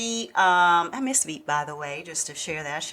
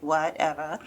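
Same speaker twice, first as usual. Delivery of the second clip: dismissive, lower, with a hint of Russian accent; Russian-tinged accent; 4 semitones lower than usual. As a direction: brush him off in a light Russian accent. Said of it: "a hint of Russian in your voice".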